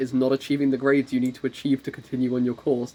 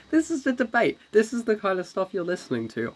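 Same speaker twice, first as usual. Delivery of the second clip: mock announcer; 7 semitones higher than usual. Mock announcer aside to listeners.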